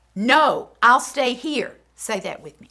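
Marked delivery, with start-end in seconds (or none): 0.2-1.8 strong, loud, firm, no-nonsense tone. Showing a child how to refuse a stranger: strong firm voice. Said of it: "it is strong because she wants".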